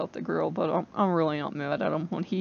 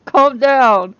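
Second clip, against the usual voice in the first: loud, high, slow yell; a loud yell at the god to calm down; retold yell; 5 semitones higher, 10 dB louder, much slower than usual. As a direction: shout him down, drawn out and loud. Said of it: "I was yelling at him".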